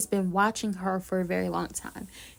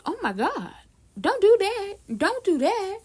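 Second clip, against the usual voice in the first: mock panicked plea; 9 semitones higher than usual. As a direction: beg him to stop, half-acted. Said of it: "it's just like".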